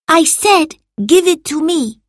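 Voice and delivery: loud, high, impatient order; insistent command. A narrator's reading. Marcus interrupting Salvius's excuse, insistent command. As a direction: cut in and insist. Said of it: "repeated Marcus".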